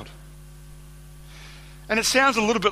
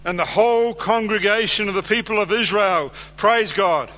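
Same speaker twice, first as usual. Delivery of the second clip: brighter and louder, a deliberately wrong cheerful reading; mock joyful misreading; 2 semitones higher, 3 dB louder than usual. Shown as a demonstration. Preacher fakes a happy version for the congregation, mock joyful reading. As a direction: read it as if they praised God, upbeat. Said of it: "No one's gonna call out, "You're a heretic"?".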